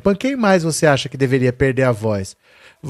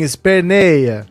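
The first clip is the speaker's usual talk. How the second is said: "esperneia" stretched out slowly; slow taunt; 3 semitones higher, much slower than usual. Real, not acted. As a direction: savour "esperneia", drawn out and mocking. Taunting Bolsonaro again.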